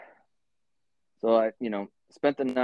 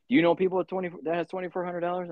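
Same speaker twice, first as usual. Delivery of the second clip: cellmate; 10 semitones higher, faster than usual. Retold or imitated. Cellmate voiced asking about bail.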